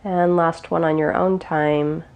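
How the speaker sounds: calm, unhurried meditation guide; guided meditation. Real, not acted. Teacher guiding listeners through gentle breaths, calm guided meditation. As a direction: ease them gently through each breath, with long pauses.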